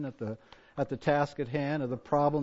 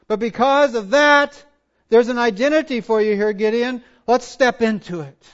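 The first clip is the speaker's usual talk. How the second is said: raised voice, urging the listener on; emphatic preaching; 5 semitones higher, 10 dB louder than usual. Real, not acted. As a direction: press the point home loudly. Preaches at full force.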